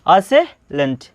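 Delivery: असेलेंट broken into 'uh-se', pause, 'lent'; demonstrated syllable split. Shown as a demonstration. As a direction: say असेलेंट in two separated chunks. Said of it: "इसको क्या पढ़ते हैं?".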